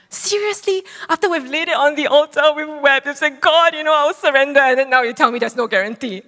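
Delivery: high, loud incredulous protest; exasperated disbelief. Retold or imitated. Complaining to God that the deployment may fall through, high and indignant. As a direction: voice jumps up in outraged disbelief. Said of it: "And I was like".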